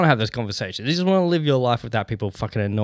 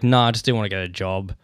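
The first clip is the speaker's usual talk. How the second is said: dry deadpan brush-off, dropped low; 5 semitones lower than usual. Retold or imitated. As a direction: shut the chat down flatly, no fuss. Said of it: "you just say it deadpan".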